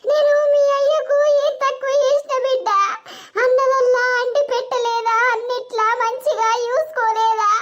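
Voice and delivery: weeping, sing-song grieving wail; tearful lament. Acted. Mother wails to her daughter over the betrayal, tearful. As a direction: mourn aloud as if keening over a loss.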